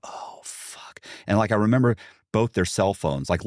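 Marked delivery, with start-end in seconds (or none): 0.0-1.0 whispered curse; whispered thought. Retold or imitated. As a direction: breathe it out in dismay.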